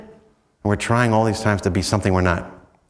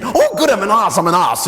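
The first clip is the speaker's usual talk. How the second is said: mock cheerful acceptance; 10 semitones higher, 5 dB louder than usual. Teacher cheerfully accepts the insult.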